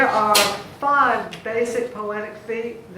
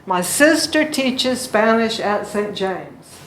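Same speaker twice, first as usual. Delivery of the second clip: "My sister teaches Spanish at Saint James" slow, stressing SIS, TEACH, SPAN; "My sister teaches Spanish at Saint James" slow, louder, evenly beaten; marked rhythm; 5 dB louder than usual. Shown as a demonstration. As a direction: lean on "sister", "teaches", "Spanish" in a steady beat. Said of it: "You hear that one?".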